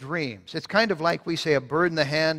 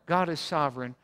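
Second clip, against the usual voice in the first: ordinary delivery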